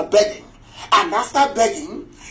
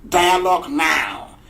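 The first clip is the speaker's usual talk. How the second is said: quoted prophet; 2 semitones lower, slower than usual. Retold or imitated. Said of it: "The prophet said".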